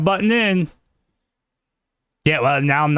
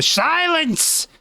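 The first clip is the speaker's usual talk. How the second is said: sudden high, booming "Silence!"; commanding shout; 13 semitones higher than usual. Acted. Fortune teller silencing a heckling player, booming. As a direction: cut off the interrupter with a theatrical command. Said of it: "You are not the fortune teller here".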